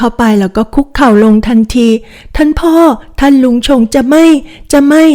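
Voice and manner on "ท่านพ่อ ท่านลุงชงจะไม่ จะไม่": high, urgent pleading to father; desperate plea. Acted. Kneeling daughter pleading with her father, high and desperate. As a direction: beg him before he cuts in.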